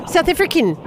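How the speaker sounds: attempted South African accent on "South African"; terrible try at a South African accent; bad South African accent. Shown as a demonstration. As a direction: have a poor go at a South African "South African". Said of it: "that's terrible".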